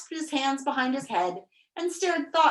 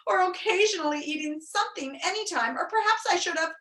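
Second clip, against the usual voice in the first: higher, uncomfortable rambling; wheezed; 7 semitones higher than usual. A narrator's reading. Overfed bug running through his excuses, high wheezy babble. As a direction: wheeze on and on between gulps. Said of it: "wheezed the uncomfortable bug between gulps".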